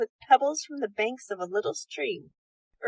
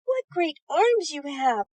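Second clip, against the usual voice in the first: cried with surprise; 5 semitones higher than usual. Acted. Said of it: "she cried with surprise".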